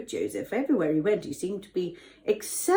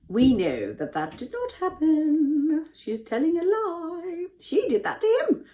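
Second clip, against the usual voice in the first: mock tearful aside; 8 semitones higher than usual.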